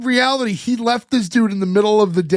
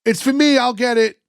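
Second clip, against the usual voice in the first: calling out from another room, high and louder; off-screen shout; 6 semitones higher, 3 dB louder than usual. Retold or imitated. Boyfriend yelling from the next room about the phone. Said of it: "Frankie's voice off screen shouting".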